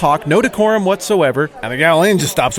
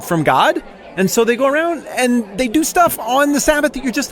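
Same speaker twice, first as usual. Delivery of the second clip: a self-righteous religious man venting, voice pitched higher and pressing; righteous outrage, building as he justifies himself; indignant Pharisee rant; 4 semitones higher than usual. Acted. Jeff the Pharisee complains to his buddy Mike, indignant and preachy. Pharisee rants about Jesus.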